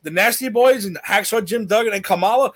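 high-pitched, hammed-up rant swelling to a shout; mock ranting announcement. Imagined boss boasting of signings to doomed wrestlers, mock rant. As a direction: pile on the names in mock outrage. Acts out escalating locker room meeting.

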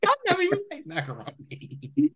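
laughing. Retold or imitated. Quoting character while laughing.

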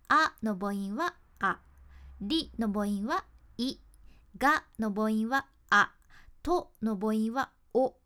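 slow, loud open vowels あ い あ お; vowels stretched clearly. Shown as a demonstration. Teacher demonstrating vowel shapes, loud and slow.

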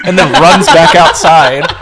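laughing through the words; slow words through laughter. Real, not acted.

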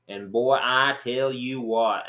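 folksy Southern drawl, stretched out; Southern mountain accent. Retold or imitated. Describing locals to a friend, slipping into a Southern mountain drawl. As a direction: lightly imitate a thick Black Mountain accent. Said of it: "a very strong, thick accent".

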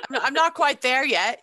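laughing it off; chuckling through the words. Real, not acted. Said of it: "I'm still a little salty".

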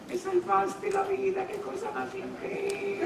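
high, slow, soft gushing gratitude; high soft mock-grateful client voice. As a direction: gush thanks in a lifted soft voice. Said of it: "te dice".

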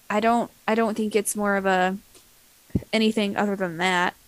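hiccuping mid-sentence; talking through hiccups. Real, not acted. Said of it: "Oh, excuse me, hiccup".

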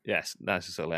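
ordinary talk

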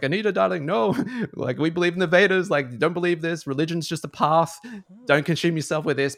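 a mother soothing her daughter out of a religious scare, high and loud; mum's voice. Retold or imitated. High, loud mum telling her daughter not to believe it. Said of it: "her mom's just like".

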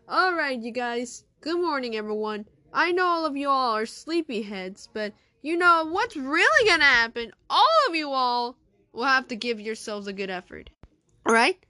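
loud, upbeat teacher addressing class; rally the sleepy kids. Acted.

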